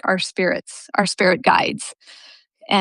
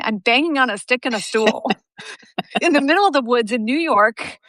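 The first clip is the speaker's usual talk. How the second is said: amused laughing; 3 semitones higher than usual. Real, not acted. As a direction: laugh breaking into the words. Laughing at own absurd situation.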